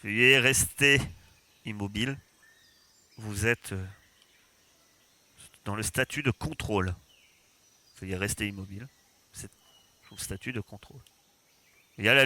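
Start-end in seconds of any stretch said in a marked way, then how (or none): 0.0-2.2 cold metallic drone voice; robot voice. Acted. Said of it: "Vous entendez une voix métallique". 3.2-11.0 robot voice. Acted. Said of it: "Vous entendez une voix métallique".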